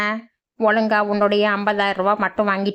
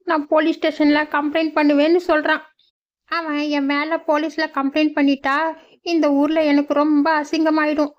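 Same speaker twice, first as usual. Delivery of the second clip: put-on higher, anxious old mother's voice; worried old mother; 6 semitones higher than usual. Old mother telling the young man her trouble, higher and worried. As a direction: pour out the trouble, fretting.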